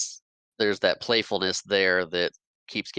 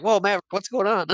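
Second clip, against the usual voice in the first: higher, louder imitation of a startled friend; mock startled; 10 semitones higher, 5 dB louder than usual. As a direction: act out sudden alarm at a friend's stunt. Retold friend held at gunpoint.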